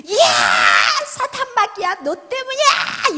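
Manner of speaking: high, loud hammed-up yell; mock furious retort. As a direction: lash back as an enraged wife, dragging the last words. Acted furious retort to nagging husband. (과장되게 악쓰며 맞받아치기)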